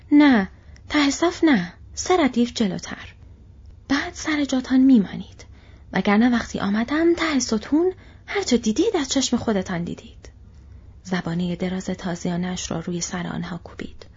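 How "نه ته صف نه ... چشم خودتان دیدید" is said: sharp high shouted orders, much louder; orc shouting. Acted. Orc slave-driver yelling at the two hobbits, loud. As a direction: yell them into place. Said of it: "فریاد زد".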